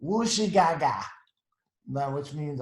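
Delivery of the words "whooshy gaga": louder pretend baby talk; playful nonsense baby words; baby babble. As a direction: babble like a baby who can't talk yet. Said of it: "doesn't know how to talk yet".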